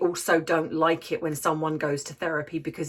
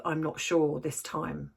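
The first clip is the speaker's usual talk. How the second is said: imitating a fearful doubt. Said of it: "a fear".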